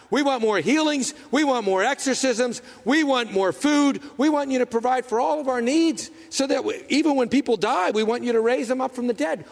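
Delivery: demanding crowd. Retold or imitated. Preacher voicing demanding crowd to Jesus.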